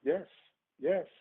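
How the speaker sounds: yawning while talking; words through a yawn. Real, not acted. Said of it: "Why do you yawn so much?".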